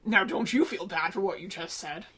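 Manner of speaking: low, soft scolding; understated reproach; admonishing. Acted. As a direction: chide a friend quietly. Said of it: "looks at Jack admonishingly".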